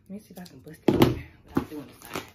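loud, strained, fighting the tape; straining effort. Real, not acted. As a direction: push through the effort. Struggling to open box.

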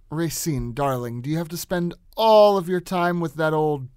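haughty nasal. Shown as a demonstration. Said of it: "tucks through his nose".

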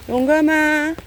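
called out loud and high across the yard; calling out. Real, not acted. Calling the cat Yonggam over to eat, loud and high. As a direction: call the cat to come and eat.

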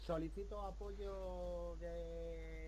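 loud clipped radio call for artillery; crackly military radio. Acted. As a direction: bark requests over a crackling radio. Pide artillería por radio. (petición urgente por radio militar)

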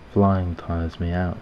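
slow, mildly sniveling complaint. Acted. Pigeon whines to the narrator, mildly sniveling. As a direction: drag the words out in a light whimper. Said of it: "The pigeon just sniveled".

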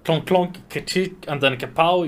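tank sound effects. Shown as a demonstration. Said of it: "It's like clonk".

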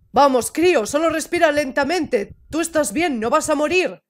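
mild, steadying coaching; gentle reassurance. Acted. Figure tells the kid they will live, mildly reassuring. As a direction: talk them down without raising the voice.

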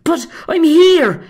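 high, loud, slow declaration; brave face. Acted. Patrick bracing himself before the monster, loud and brave. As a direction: stand your ground out loud. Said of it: "Patrick plucked up his courage".

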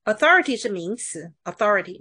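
"authority" stressed on the second syllable, THOR; noun stress. Shown as a demonstration. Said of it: "动词在第一个音节". (“authority”名词，重音在第二音节)

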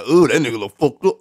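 loud, startled ooh at the mirror; loud mock-horrified reaction; shocked at own reflection. Real, not acted. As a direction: blurt it out, caught off guard by how it looks. Seeing himself in mirror.

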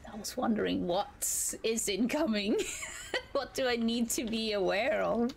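giggling through the question; words broken by laughter; laughing. Real, not acted. Laughing while asking.

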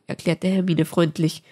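ordinary delivery

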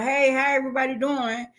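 high-pitched, cheery hello; acted-out jolly hello; jolly greeting. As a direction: greet the whole room in jolly spirits. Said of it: "I'm still in my jolly spirit".

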